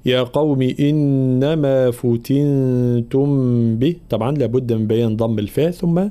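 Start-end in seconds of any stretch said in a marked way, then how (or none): 0.1-4.0 slow, drawn-out tajweed chant; Quran recitation. Shown as a demonstration. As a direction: recite it slowly and measured. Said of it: "في قوله تعالى". (تلاوة مجودة بطيئة)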